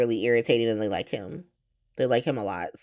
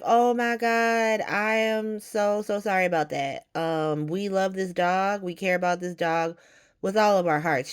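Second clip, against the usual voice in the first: mock apologetic; 4 semitones higher than usual. Gio and Emma apologizing to Anna about the dog, mock gushing. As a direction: gush a fake sorry, hammed-up. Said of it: "They're both like".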